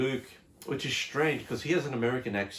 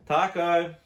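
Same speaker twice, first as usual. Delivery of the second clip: sharp higher call to the pet; calling the dog; 4 semitones higher than usual. Real, not acted. Vlogger calls his dog Taco out of the room, raised call.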